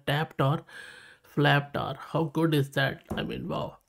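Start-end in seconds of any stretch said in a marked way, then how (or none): 3.2-3.8 breathless whispered wow; hushed, impressed whisper; awed whisper. Real, not acted. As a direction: let the wow slip out under your breath. Awed reaction to the result.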